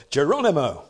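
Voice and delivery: corrected battle cry. Shown as a demonstration. Preacher redoes the paratroopers' cry: steadier Geronimo. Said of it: "I'll get it right way".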